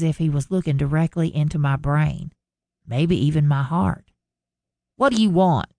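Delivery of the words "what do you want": snapped. A narrator's reading. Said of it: "I snapped, none too friendly".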